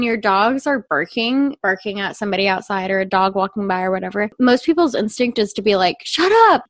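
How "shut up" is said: sharp high mock yell of shut up. Retelling how owners yell at barking dogs, mock yell. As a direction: bark it like an annoyed owner at dogs. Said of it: "to yell at them".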